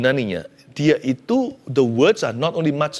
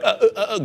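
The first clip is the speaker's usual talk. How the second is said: imitated sob; 9 semitones higher than usual. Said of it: "orang lagi nangisnya deras".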